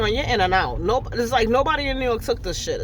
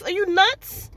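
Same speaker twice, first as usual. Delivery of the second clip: outraged; 8 semitones higher, slower than usual. Real, not acted. Outraged question.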